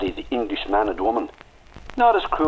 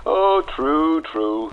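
laughing admission; 8 semitones higher, much slower than usual. Acted.

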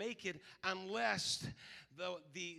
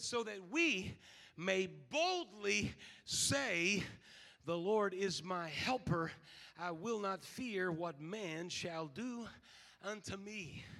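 scripture reading; 3 dB louder, slower than usual. Acted. Reads scripture slowly.

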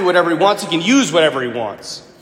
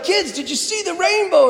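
teacher voice; 11 semitones higher than usual. Retold or imitated. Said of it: "my brother's like".

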